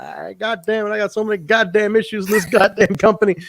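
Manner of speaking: mock frustration. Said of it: "he's frustrated. He's losing it".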